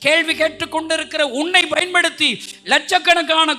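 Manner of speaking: high, loud pulpit proclamation; full-force preaching. Acted. Preacher proclaiming to the congregation, loud and high.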